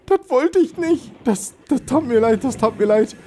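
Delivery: apologetic cutesy voice. Pretend. Gamer apologising to his damaged sub, high sorry voice. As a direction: apologise sweetly to a pet.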